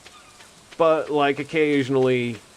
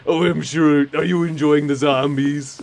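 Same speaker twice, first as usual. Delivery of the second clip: enthusiastic necromancer. Acted. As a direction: gush about corpses with delight. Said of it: "overly enthusiastic about zombies".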